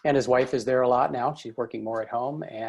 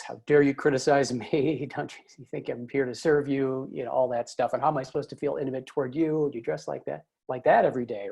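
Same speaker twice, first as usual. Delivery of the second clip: indignant wife. Retold or imitated. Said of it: "she finally reacts".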